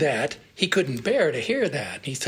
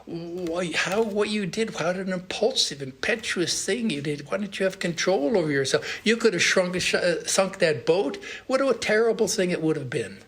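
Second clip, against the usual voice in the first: a guru's mild mock rebuke, pitched up; teacher chiding a rash boy, pitched up; scolding; 4 semitones higher than usual. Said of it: "and he scolded him".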